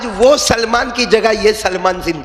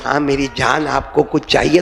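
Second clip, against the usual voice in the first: loving; 3 semitones lower than usual. Retold or imitated. Wife greeting her husband late at night, tender. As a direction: say it like a sweet endearment. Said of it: "اگر پیار سے بولے کہ".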